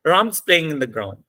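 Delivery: evenly timed beats on "Ram's", "playing" and "ground"; even stress-timed rhythm. Shown as a demonstration. Teacher showing students how to say the sentence, even beats on "Ram's", "playing", "ground". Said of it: "दोबारा बोल के दिखा देता हूँ".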